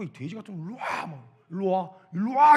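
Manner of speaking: daring the giant to come over; angry challenge. Retold or imitated. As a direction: start muttering the threat, end shouting it. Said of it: "이러면서 막 흥분을 하니까".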